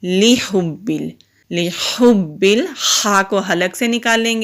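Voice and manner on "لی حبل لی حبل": لی حبل said slowly with the lam run together into حبل; wrong pronunciation. Shown as a demonstration. Teacher shows students the mistake to avoid, slow wrong reading. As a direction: demonstrate the wrong joined لی حبل. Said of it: "اس کو لی حبل نہیں کریں گے".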